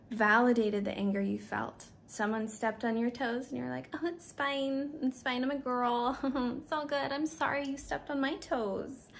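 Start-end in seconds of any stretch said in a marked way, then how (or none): 3.9-9.1 higher, giggly brush-off; mock people-pleaser. Woman shrugging off a stepped toe, mock cheerful. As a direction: laugh it off like nothing happened.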